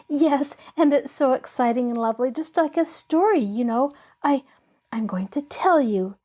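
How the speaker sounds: a hint of a bright young girl, bubbling over; lightly voiced eager girl. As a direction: let the girl's excitement spill out. Pollyanna's excited line.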